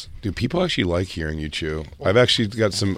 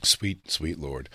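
slow mock exasperation; 3 semitones lower, 8 dB quieter, slower than usual.

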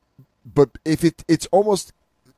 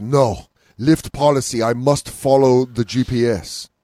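put-on stubborn old driver; 2 semitones lower, slower than usual. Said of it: "very stubborn old man".

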